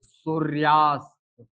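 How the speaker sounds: सूर्यास्त said slowly, every sound drawn out; slow teacher demo of सूर्यास्त; slow, careful pronunciation. Shown as a demonstration. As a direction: spell it out aloud for the class. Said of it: "शब्द बन जाएगा".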